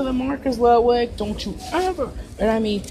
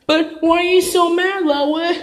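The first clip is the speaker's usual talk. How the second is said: put-on kid voice; 8 semitones higher, 4 dB louder, slower than usual. Child asks why adult is mad.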